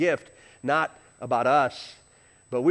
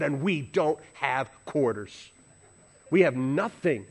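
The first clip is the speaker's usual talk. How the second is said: wife's grave answer; 3 semitones lower, slower than usual. Retold or imitated.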